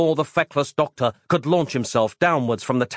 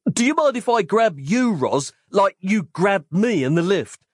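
higher, hopeful mild yell; yelling Mike; 8 semitones higher than usual. Acted. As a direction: flirt hopefully over the noise. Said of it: "Mike yelled back".

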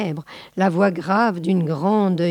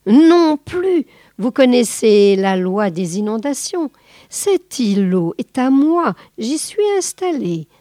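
louder, higher insistent snake; a touch of stern boa, louder; firm boa; 4 semitones higher, 5 dB louder than usual. Acted. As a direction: lay down the law. Boa asserting to ants.

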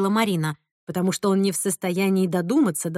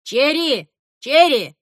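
calling the dog; 4 semitones higher, 5 dB louder, slower than usual. A narrator's reading. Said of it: "позвал оттуда".

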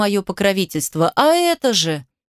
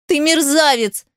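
shout; 7 semitones higher than usual. A narrator's reading. Wiping tears, she shouts at him. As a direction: scream the insult at him. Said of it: "закричала она".

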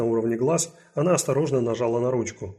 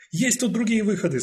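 raised, urgent questioning; 9 semitones higher than usual. Acted. Detective urgently asking the guard. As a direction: press the guard for answers.

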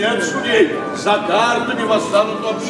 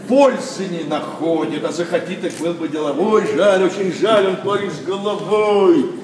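lowered, confiding lament; regretful; 6 semitones lower than usual. Acted. Elder lamenting his friend's son to a guest, low regretful tone. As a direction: drop low and sigh over wasted promise.

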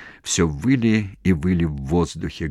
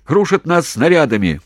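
loud, much higher yelling over shellfire; shouting into phone; 9 semitones higher, 5 dB louder than usual. Acted. Commander yelling into the field telephone to HQ. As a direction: yell down a bad phone line. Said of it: "кричал в трубку Головачёв".

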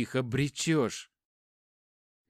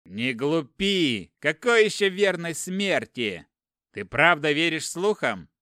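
louder, angry pleading rebuke; heated argument; 5 dB louder than usual. Acted. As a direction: press him hard, voice rising. Brother urges resistance loudly. (брат гневно спорит, громче)

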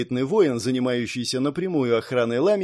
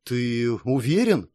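surprised; slower than usual. Acted. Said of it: "удивлённо глядя на парня".

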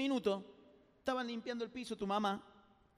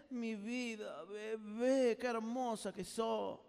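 tender sweet talk; much slower than usual. Retold or imitated. Husband sweet-talking his wife.

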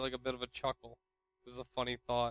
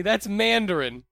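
imitating coworker; 7 semitones higher, 8 dB louder than usual. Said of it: "he says to me".

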